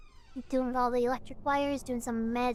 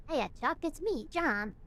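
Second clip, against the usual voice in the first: character voice; 3 semitones higher than usual. Acted. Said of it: "I gotta do this in the right voice".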